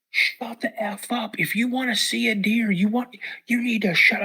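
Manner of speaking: dad hissing at noisy son; hushed angry scolding. Retold or imitated. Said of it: "he's like".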